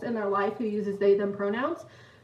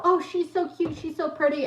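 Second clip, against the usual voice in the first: lightly imitated high-pitched gushing; gushing admirer; 5 semitones higher than usual. People admiring mom's dog, gushing. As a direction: coo over a cute dog, mildly hammed up.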